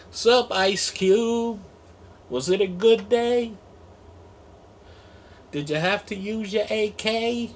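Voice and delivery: high mock greeting. Talking to ice cubes as if greeting a rapper.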